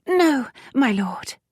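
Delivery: high, slow squeak of pain; pained little high squeal. Acted. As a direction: squeak it out high after a painful squeeze. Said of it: "so she squeaked".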